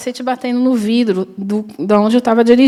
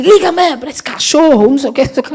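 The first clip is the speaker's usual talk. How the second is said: angry man quote; 3 semitones higher, faster than usual. Retold or imitated.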